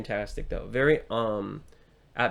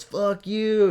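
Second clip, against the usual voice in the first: imitated yell, higher and louder; retold screaming; 9 semitones higher, 6 dB louder than usual. Film fan retells a character flipping off a guy, screaming. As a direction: act out yelling it at him. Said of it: "just starts screaming at him".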